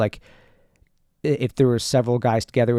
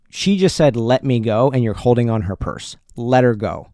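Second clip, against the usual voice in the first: a mock-stern order, raised and strong; firm confrontation; 6 dB louder than usual. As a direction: plant your feet and tell him to let go. Confronting the guy, retold.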